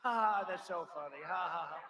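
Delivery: imitating a giggly laugh between words; mock her laughing at a serious question; mock cackle. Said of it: "Kamala with the laugh".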